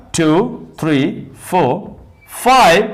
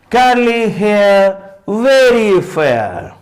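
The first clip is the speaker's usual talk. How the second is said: slow model reading; slower than usual. Shown as a demonstration. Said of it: "teacher models the rhyme words".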